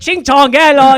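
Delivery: put-on high, loud caricature of an Asian accent; hammed-up fake Asian accent; mocked Asian accent. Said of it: "the speaker doing the ching chong thing".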